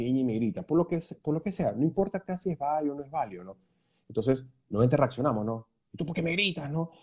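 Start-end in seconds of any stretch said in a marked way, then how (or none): 5.9-6.9 quick reactive comeback, a touch of irritation; mild reactive retort. Shown as a demonstration. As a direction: snap back lightly, taking offence. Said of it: "en vez de reaccionar así". (leve reproche reactivo)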